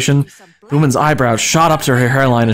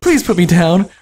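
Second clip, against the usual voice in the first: put-on high girl voice; 6 semitones higher than usual. A narrator's reading.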